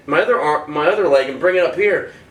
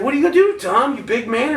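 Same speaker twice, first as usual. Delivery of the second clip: high, mocking challenge; retold taunt; 6 semitones higher than usual. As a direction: goad him into a fight. Bunkmate taunts him in story.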